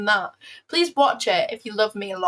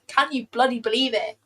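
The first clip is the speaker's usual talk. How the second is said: British accent with emphasis on "bloody"; stress on bloody. Shown as a demonstration. Streamer repeats her disbelief for chat, stressing "bloody". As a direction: punch the word "bloody" in British fashion. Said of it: "emphasis on bloody in my British accent".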